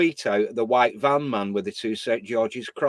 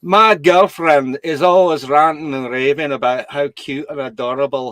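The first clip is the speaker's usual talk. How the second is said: rough imitation of a Scottish accent; 4 dB louder than usual. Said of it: "I'll see if I can do the impersonation".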